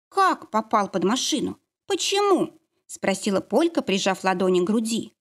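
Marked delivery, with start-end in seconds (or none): 0.1-2.6 shocked disbelief. Acted. Shocked daughter.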